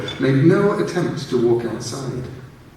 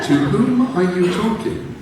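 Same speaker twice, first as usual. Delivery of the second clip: alien voice; 8 semitones higher, slower than usual. A narrator's reading. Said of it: "asked the voice".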